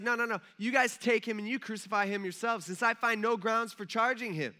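high-pitched, insistent refusal; acted protest. Pilate refusing the crowd's demand, protesting.

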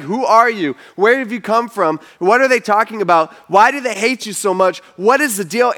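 mildly agitated interrogation; peppering questions. Retold or imitated. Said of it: "He starts peppering Jesus with question after question".

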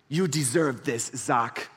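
slow, mock-smooth sales pitch; lightly voiced salesman buttering up a customer; phone sales rep. Sales rep on the phone flattering Zach, mock smooth pitch. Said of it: "but he's like".

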